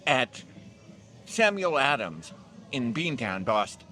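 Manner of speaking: mock announcer. Announcer-style beer name call.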